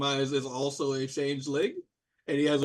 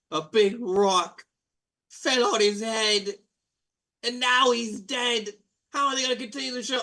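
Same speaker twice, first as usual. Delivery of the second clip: brash, higher mock-tragic announcement; Blue Blairy; 5 semitones higher than usual. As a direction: cut everyone off to share the news. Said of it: "who goes like".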